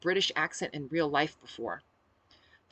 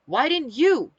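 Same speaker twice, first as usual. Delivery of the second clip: loud, raised-pitch narrated growl; growled retort; 9 semitones higher, 10 dB louder, slower than usual. A narrator's reading. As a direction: throw the question back loudly. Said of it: "I growled".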